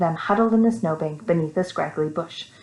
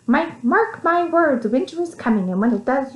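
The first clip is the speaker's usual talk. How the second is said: stern warning; 7 semitones higher than usual. Acted. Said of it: "glared and said".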